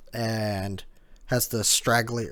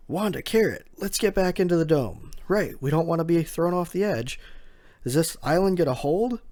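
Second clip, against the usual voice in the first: higher, raised call; 6 semitones higher than usual. Retold or imitated. Nekomamushi calls Wanda and Carrot inside, raised. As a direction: call the others in. Calling companions amid collapse.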